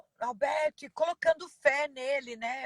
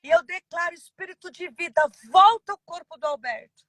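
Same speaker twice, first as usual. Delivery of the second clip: retold rebuke; 3 semitones higher, 4 dB louder than usual. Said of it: "gritei com todas as minhas forças".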